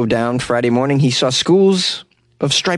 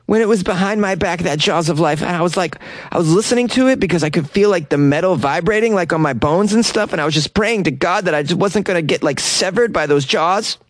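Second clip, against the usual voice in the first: put-on higher young woman voice; Joe voice; 5 semitones higher than usual. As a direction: quote her in a raised girlish voice. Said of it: "Here's some more quotes from Joe".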